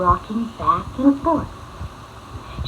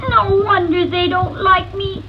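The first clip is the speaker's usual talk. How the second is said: sad; 8 semitones higher, 5 dB louder than usual. Acted. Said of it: "he thought sadly".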